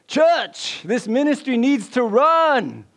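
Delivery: high, rousing revival shout. Acted. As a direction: shout it out to whip up the crowd. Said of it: "shouting louder".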